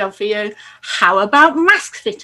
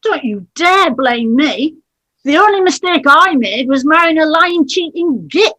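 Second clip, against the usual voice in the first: angry; 4 semitones higher than usual. Acted. Wife rants at cheating husband.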